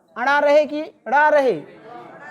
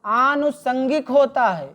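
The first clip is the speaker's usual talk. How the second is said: आनुषंगिक said slowly and clearly; careful dictation. Shown as a demonstration. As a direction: correct the spelling by saying आनुषंगिक slowly. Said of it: "आनुषांगिक नहीं होता". (सही उच्चारण धीरे से)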